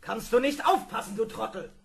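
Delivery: furious outburst at the robot after a bumpy landing; angry scolding. Acted. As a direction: snap at the clumsy robot.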